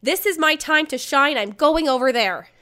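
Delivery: hyped-up retold exclamation; excited. Acted quote of her excited thought.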